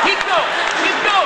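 high, rapid-fire urging; imitated congregation yell. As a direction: cheer the preacher on in a high yell.

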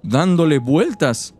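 lightly voiced little old woman. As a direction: read it as a frail old lady. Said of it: "¿Qué les parece mi voz de viejita?". (voz de viejita)

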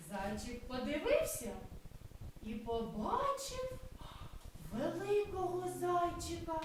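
lively, sing-song storytelling voice; story narration for children. Acted. Kindergarten teacher reading a cloud story aloud to children. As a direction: tell the tale as if to small kids.

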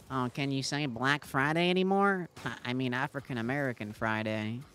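mock dad-joke voice, pleased with himself; mocking a boomer dad. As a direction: parody the dad's corny joke, hammed up. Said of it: "he thought it was a funny joke to call".

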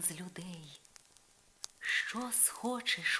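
fairy Morgana murmuring to Isolde; gentle fairy godmother. Acted. Morgana warns.

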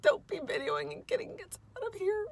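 high, loud impatient dog voice; voicing the dog. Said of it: "she's like".

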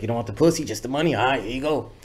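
a light Toker voice; faintly voiced homie handing over the money; Toker impression. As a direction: pay him off in a Toker voice with a teasing shrug. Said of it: "I always do impression of Toker".

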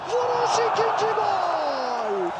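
high, slow goal cry; screaming football commentator. Real, not acted. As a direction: stretch out the goal like a cheer. Goal call in live commentary. (heyecanlı gol anonsu)

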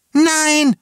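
very high, loud cry; screamed refusal. A narrator's reading. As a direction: scream in desperate protest. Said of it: "schrie Jana Bertha". (gellender, verzweifelter Schrei)

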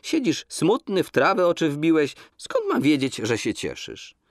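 lightly voiced young girl, teasing; a girl coaxing a sullen lad; girl gently teasing her sad suitor, lightly voiced; young woman's voice. A narrator's reading. Donka's voice in dialogue.

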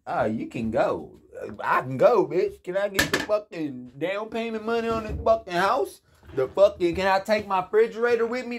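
high, loud indignant demand, rushing at the end; hammed-up outrage; mock angry retort. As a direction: fire it back at her, outraged. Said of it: "That's probably what I said right there".

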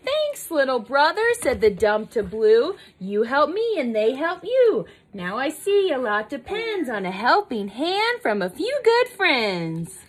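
lilting rhymed read-aloud; storybook dialogue in rhythm; picture-book story narration. A narrator's reading. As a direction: read the moral in a gentle sing-song. Reads picture book to child.

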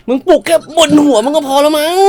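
1 mocking jab. Roasts the broccoli grower.

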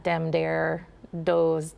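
"dem, dare, does" with D for TH; hard TH. Shown as a demonstration. Coach showing northern rural speech, "dem, dare, does" with D sounds. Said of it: "different thing with the T Hs".

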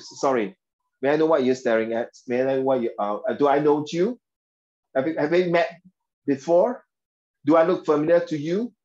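calm, courteous standard English question; polite version. Shown as a demonstration. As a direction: ask gently, like a well-mannered person. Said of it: "we have a good manners".

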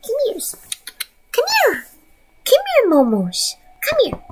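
high coaxing call; high pet talk. Real, not acted. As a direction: coax the cat up high.

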